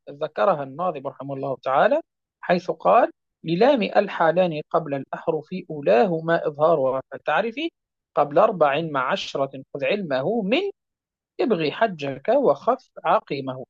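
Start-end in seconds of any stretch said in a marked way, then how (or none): 3.4-13.6 measured, chanted recitation of the rule poem; recited verse. Acted. Teacher quoting the poet's verse, in a steady recitation. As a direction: recite the lines like a memorised poem.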